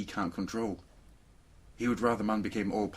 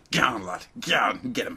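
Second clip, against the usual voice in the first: urging shout; 6 dB louder than usual. Retold or imitated. Urging dragon, acted.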